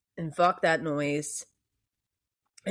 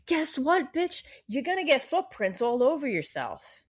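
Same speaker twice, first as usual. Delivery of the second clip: sassy jab; 7 semitones higher than usual. Acted. Scornful punchline in rant.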